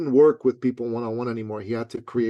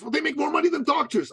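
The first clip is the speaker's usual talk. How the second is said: higher, smug mock voice; lightly raised naive client voice; eager client; 13 semitones higher than usual. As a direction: imitate his naive pitch, higher up.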